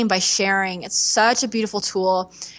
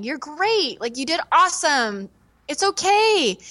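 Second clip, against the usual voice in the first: mom comforting; 4 semitones higher than usual. Retold or imitated. Mom comforting after show.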